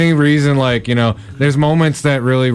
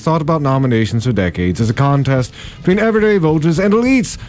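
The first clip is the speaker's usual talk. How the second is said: lightly posh, snooty reading voice; snobby voice. Shown as a demonstration. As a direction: read it like a stuck-up elite. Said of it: "I'm gonna read it in this voice".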